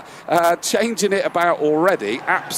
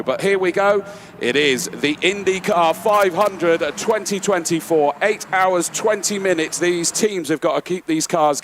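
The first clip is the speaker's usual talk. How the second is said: excited; 5 semitones higher than usual. Real, not acted. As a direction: race start call, higher and lifted. Race start called live.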